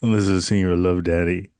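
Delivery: low smooth-talking radio host in an African American accent; black voice. Shown as a demonstration. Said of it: "This is my black voice".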